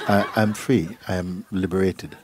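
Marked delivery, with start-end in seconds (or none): 0.1-1.0 lightly laughing, happy I'm free; joyful with a laugh. Shown as a demonstration. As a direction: say I'm free with a glad chuckle. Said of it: "No, you know".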